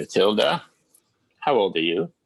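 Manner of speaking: throaty, guttural monster voice of a dragon. Telling a story, the speaker voices a dragon questioning another character, guttural dragon voice. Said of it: "a dragon in a guttury voice says".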